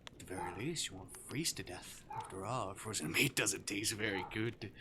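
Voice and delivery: lightly voiced demon toying with prey; teasing Arctic demon. Demon to his captive human, playfully menacing.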